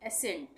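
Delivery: एसेंट with only an S sound, ending in T; silent C. Shown as a demonstration. Teacher showing learners the silent C, एसेंट with plain S. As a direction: say एसेंट as "a-sent". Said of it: "सी का नहीं हो रहा है".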